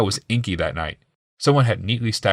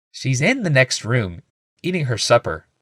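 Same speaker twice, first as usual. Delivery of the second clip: healer; 4 semitones higher than usual. A narrator's reading.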